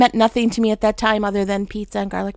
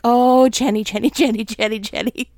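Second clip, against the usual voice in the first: fond teasing. Retold or imitated. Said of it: "I quite often hear God just like".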